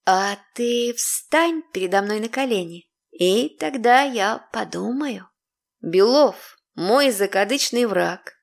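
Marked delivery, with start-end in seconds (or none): 0.1-5.3 seductive breathy whisper. Acted. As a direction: lean in and tempt him. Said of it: "прошептала с придыханием обольстительницы". (с придыханием обольстительницы)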